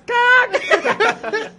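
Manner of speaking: high, laughing mock shout; laughing mock cry. Mimicking fans teasing her, high laughing shout. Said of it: "de repente eles começam".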